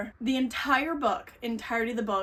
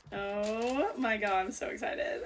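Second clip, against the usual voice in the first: choked up; slower than usual. Real, not acted. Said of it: "I'm literally gonna get emotional".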